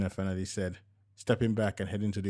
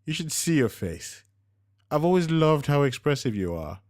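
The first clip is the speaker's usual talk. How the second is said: laughing tease; 7 semitones higher, 8 dB louder than usual. A narrator's reading. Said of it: "burst into a fit of laughter".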